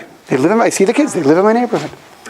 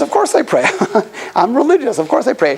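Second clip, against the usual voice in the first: amused, with a laugh breaking through; 4 semitones higher than usual. Retold or imitated. Guy laughing at the rabbi's question, amused. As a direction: chuckle as if the question is silly.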